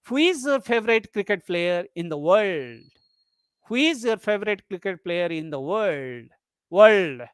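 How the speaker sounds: friendly question, lift on "world"; polite interest, pitch moved on WORLD; rising tone. Shown as a demonstration. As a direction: stretch "world" and bend it upward. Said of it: "here you are using rising tone".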